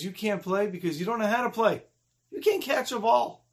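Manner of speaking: mocking rejection; scornful put-down. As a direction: put the kid down like a playground bully. Boy rejects and belittles him.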